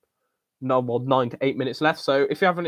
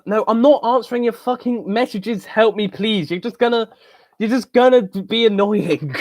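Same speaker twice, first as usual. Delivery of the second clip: teasing dismissal; 7 semitones higher than usual. Real, not acted. Brushing off a pestering viewer.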